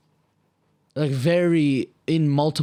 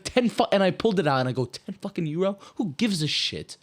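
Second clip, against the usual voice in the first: higher, ranting mock fury; retelling a rant, half-hammed anger; mock outburst; 5 semitones higher than usual. Telling a friend how he yelled at Dennis, higher mock rant. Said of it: "I was like".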